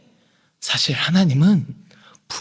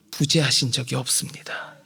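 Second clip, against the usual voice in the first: hushed assurance; 8 semitones lower, 9 dB quieter than usual. Acted. Whispered assurance.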